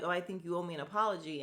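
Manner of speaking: fast, dismissive mock of "Oh, I think you owe me an apology"; mocking quote. Vlogger mocking Sutton's demand, fast and scornful. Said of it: "But for you to be like".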